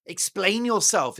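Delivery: slow stern demand; imperious command. Retold or imitated. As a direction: order it slowly and sternly. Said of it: "imperious language".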